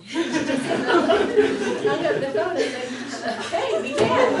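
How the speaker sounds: laughing loudly through the words; a high laughing quote. Real, not acted. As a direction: burst out laughing while quoting her. Laughing retelling grandma's line.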